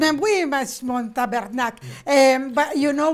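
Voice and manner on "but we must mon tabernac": lightly put-on French Canadian accent. Shown as a demonstration. Answering praise of her accents, mock French Canadian accent. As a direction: toss off French Canadian swearing. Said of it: "as good as your French Canadian accent".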